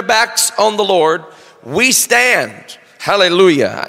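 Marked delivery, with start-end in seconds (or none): 1.6-2.8 "stand" leaned on and drawn out; We "stand", weighted and final; stress on stand. Shown as a demonstration. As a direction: hit the word "stand". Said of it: "emphasis on the word stand".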